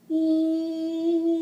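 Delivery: sung high with a sharp twang; twangy E. Shown as a demonstration. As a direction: ring out a twangy E. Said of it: "you're doing the twangy E".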